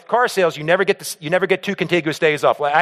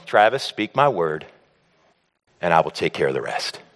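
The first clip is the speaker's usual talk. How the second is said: voice of God; 11 semitones lower than usual. Retold or imitated. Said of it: "And he's telling me".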